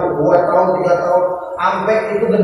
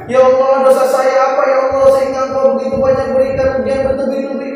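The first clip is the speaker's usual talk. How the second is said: mock indignant pleading; reproachful prayer; 5 semitones higher than usual. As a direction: act out a wrong, grumbling prayer to God. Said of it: "Pakai nanya".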